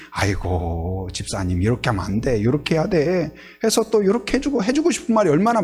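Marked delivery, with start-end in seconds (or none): 0.1-3.3 lightly voiced low, know-it-all elder; a hint of an old hand's advice, pitched low; seasoned parent advising. Church members advising new parents on baby care, lightly voiced seasoned parent. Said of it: "아기를 많이 키워본 분들이".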